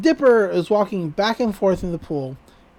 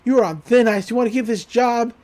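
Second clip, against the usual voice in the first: raised, louder imitation of a boss's threat; mock screaming; 3 semitones higher, 3 dB louder than usual. Pool boss screaming at his employee, half-hearted mock yell. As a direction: scold hard without a full scream. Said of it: "He's screaming at Dipper".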